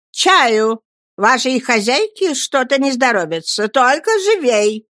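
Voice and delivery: a touch of loud bossy command; commanding order. Acted. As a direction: order the maid about. Aunt orders servant. (повелительным тоном)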